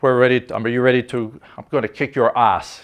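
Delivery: light mock Russian accent, taunting; a hint of a Russian-accented taunt. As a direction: sneer like a Russian enemy pilot. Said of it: "in his best Russian accent".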